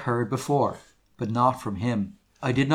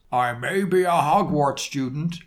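a touch of anger in a character voice; understated indignant retort; mildly angry. A narrator's reading. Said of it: "Hagrid paused angrily".

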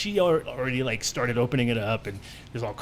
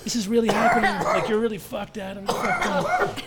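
panicked inner voice; 11 semitones higher, slower than usual. Retold or imitated. Teen in the principal's office panicking at being caught. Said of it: "I'm instantly like".

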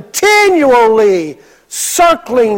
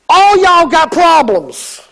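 joking Isaiah line; 5 semitones higher, slower than usual. Pretend.

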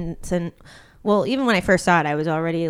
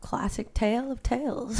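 whisper; 9 dB quieter than usual. Acted. Dramatic film verdict.

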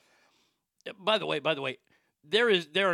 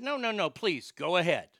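insistent politeness; 2 semitones higher than usual. Retold or imitated. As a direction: politely insist she goes first, without shouting. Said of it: "that's exactly how I said it".

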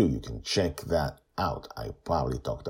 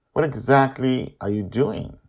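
puzzled question; 11 semitones higher, 9 dB louder than usual. A narrator's reading. Grandpa asks Joy.

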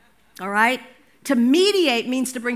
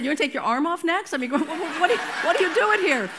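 laughing quote; 3 semitones higher, faster than usual. Retold or imitated. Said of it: "And then one of them said".

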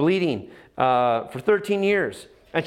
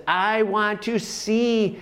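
slow, higher plea to see; raised plea; 4 semitones higher, much slower than usual. Retold or imitated. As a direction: lift the plea up and draw it out. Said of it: "And he says".

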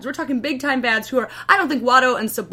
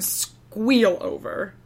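Ryan Seacrest squeal; 2 semitones lower, much slower than usual. Retold or imitated. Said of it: "That's how Ryan Seacrest sounds".

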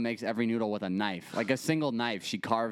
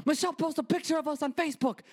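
very high, rapid outraged report; imitating yelling Italian grandma; faster than usual. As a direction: yell it fast as an Italian grandma. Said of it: "these little Italian ladies yell".

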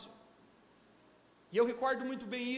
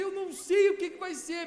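worried outburst; 5 semitones higher than usual. Retold or imitated. Worried mother voiced.

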